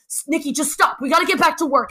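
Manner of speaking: hammed-up partner getting her back to work; mock annoyed. Dance partner scolding her to refocus, mock annoyed. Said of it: "he got mad at me".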